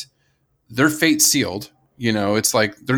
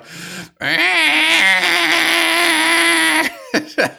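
Tasmanian devil screech. Pretend. Hinting the next species to the cohost with a devil screech. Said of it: "I guessed it from that noise".

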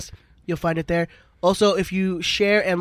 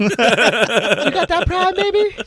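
slow, drawn-out hustler voice; shady street dealer; 9 semitones higher, 4 dB louder, much slower than usual. Pretend. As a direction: play a sly corner dealer. Mock drug deal roleplay.

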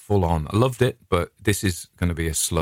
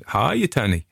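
higher, imitated South African greeting; South African accent; 4 semitones higher than usual. Psychiatrist greets her former nurse colleague, South African accent. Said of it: "who's South African".

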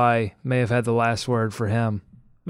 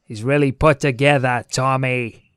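put-on Boston accent; 4 dB louder than usual. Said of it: "I'm done with my Boston accent".

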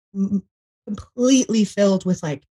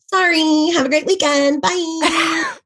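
mock breezy sign-off; 9 semitones higher, slower than usual. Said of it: "we all got an email saying".

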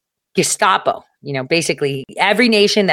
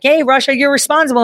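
higher mock voice of the accusers; 9 semitones higher, faster than usual. Accusers telling Russia it is responsible, higher mock voice. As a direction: play the finger-pointers calling Russia out.

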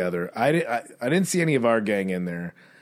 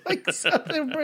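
mock girly voice. Trailing mock voice.

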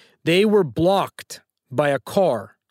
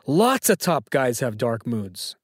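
slow, lower Silvio imitation; poor Silvio accent; 4 semitones lower, slower than usual. Host repeating the quote for Sam, poor Silvio accent. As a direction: repeat it slowly in a lightly put-on Silvio accent. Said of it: "in my poor Silvio accent".

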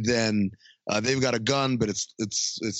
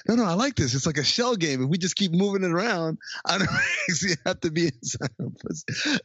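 hammed-up enthusiasm; excited mock pitch; 7 semitones higher than usual. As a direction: sell the scheme with mock glee. Retold excited argument.

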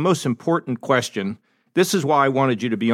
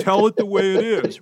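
lightly voiced mother, higher pitch; a hint of Mom telling her son; mother's imitation; 4 semitones higher than usual. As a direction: quote his mother with a slightly raised voice. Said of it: "That's what your mother used to say".

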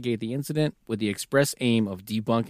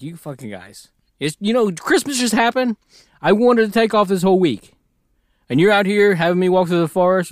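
loud griping officer, higher pitched; pissed-off officer; 7 semitones higher, 6 dB louder than usual. Retold or imitated. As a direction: whine loudly about losing the holiday week. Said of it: "He's all pissed off 'cause he's like".

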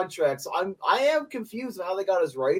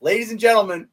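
much higher, louder mock cowboy cheer; cowboy accent celebration; 7 semitones higher, 7 dB louder than usual. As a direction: whoop it like a cowboy who just won. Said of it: "demo reel for a cowboy accent".

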